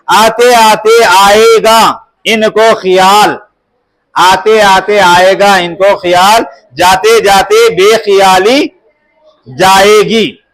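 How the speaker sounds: slow, measured couplet reading; verse recitation. Acted. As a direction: read the verse out slowly for a class. Reads out a couplet. (ठहर-ठहर कर शेर पढ़ना)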